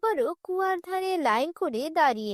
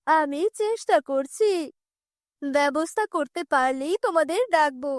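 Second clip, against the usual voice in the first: placating tantrik. Acted. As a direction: answer a demanding spirit with a measured promise.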